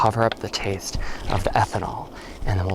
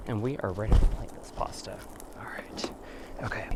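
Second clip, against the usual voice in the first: whispering; 5 dB quieter than usual. Real, not acted. Quiet aside while cooking.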